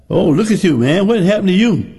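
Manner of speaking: high, teasing mock surprise; lightly voiced church folk teasing the healed man. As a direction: ham up the gossiping church folk.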